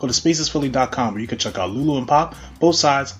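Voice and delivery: podcast intro announcer read. Acted. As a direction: read it like a sponsor spot.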